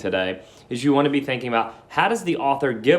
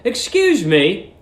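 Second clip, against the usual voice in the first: put-on higher, slow polite young man; Billy asking politely; 9 semitones higher, 5 dB louder, slower than usual. Billy asks the porter for directions, polite and raised. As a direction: ask a stranger politely, drawn out. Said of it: "he said".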